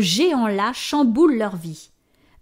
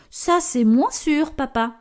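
teasing; 5 semitones higher than usual. Acted. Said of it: "le taquine Luce".

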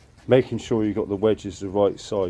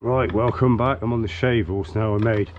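hoarse from covid; a bit throaty and rough. Real, not acted. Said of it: "If you wonder why I sound a bit throaty".

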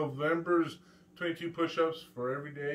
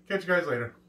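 ordinary talk, nothing marked

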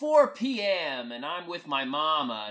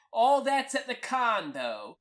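mild yell, raised pitch; a higher-pitched holler in reply; yelling back; 5 semitones higher, 3 dB louder than usual. Acted. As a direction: call back from another room. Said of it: "Mama yells back".

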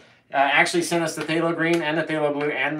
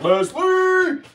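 excited call; 6 dB louder than usual. Retold or imitated. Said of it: "And then I'm like".

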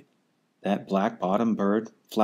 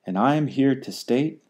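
higher, sharp snap; snapped; 4 semitones higher, 3 dB louder than usual. Acted. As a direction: cut him off sharply. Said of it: "snapped the big kangaroo".

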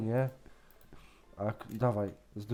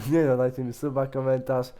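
lively channel-host patter; YouTuber sign-off; 2 semitones higher, 5 dB louder than usual. Pretend. Host asking viewers to subscribe, upbeat YouTuber sign-off. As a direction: rattle off the subscribe plea for viewers.

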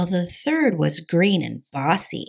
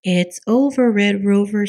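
louder motherly command; firm, raised mother voice; Mama, firm; 3 semitones higher, 6 dB louder than usual. A narrator's reading. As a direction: lay down the law as Mama. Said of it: "said Mama".

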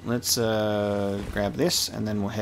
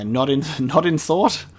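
laughing read; 4 semitones higher, 5 dB louder than usual. Real, not acted. Reading the emote name aloud.

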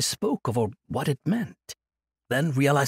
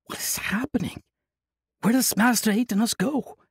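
nervous anguish; 9 semitones higher than usual. Acted. Young warrior watching the monk leave, nervous anguish. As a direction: panic as the monk walks away.

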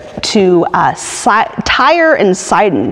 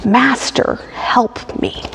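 understated plea, falling softer on the last words; begging; 2 semitones higher, 4 dB quieter, slower than usual. Acted. Woman on her knees begs Jesus, understated begging. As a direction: beg gently, pausing after the first word. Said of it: "and begs him".

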